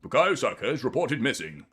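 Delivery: mock newsreader announcing a missing person; lightly hammed-up newsreader voice; silly news presenter. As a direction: put on a daft TV news voice. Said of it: "my stupid, uh, news presenter voice".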